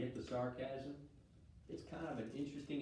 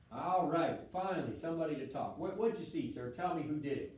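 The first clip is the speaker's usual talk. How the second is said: eager soldier; 4 semitones higher, 6 dB louder than usual. Acted. Soldier relieved, demanding an answer.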